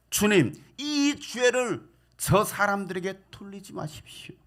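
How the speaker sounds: slow, fading plea to the Lord, the last word breathed; dying prayer. Acted.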